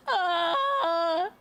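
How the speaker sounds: mock dog cry. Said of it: "his constant screaming, crying".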